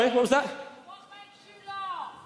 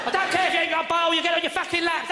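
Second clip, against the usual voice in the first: confident usher; 2 semitones higher, faster than usual. Retold or imitated. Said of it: "It's a very confident usher".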